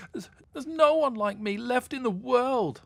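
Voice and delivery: high, loud mock-sobbing mermaid; sobbing pitifully. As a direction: wail it through stammered sobs. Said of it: "she sobbed pitifully".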